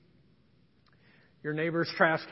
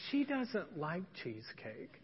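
blunt mutter; 11 dB quieter than usual. Retold or imitated. His blunt, unthinking reply retold.

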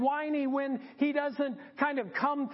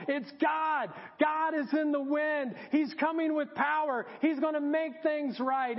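higher-pitched eager conviction; excited hope; 3 semitones higher than usual. Acted. Elijah thinking God is in the wind, excited. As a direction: sound thrilled that help is coming.

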